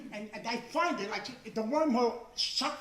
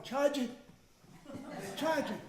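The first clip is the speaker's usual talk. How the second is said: higher mock chant of charge it, repeated; zombie shoppers droning; 4 semitones higher than usual. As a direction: imitate a dazed shopper droning it twice. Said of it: "The women are going".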